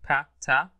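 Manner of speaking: isolated consonants "با، تا", each on a short open vowel; voiced and unvoiced sounds. Shown as a demonstration. Teacher reviewing consonant sounds for the class, isolated syllables. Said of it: "الفويس دول unvoiced".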